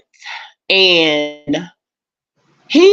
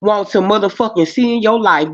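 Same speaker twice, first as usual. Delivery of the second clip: a hint of a ring announcer, rising; mock announcer. Presenting the crazy man to the audience, mock announcer. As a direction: present him like a show host.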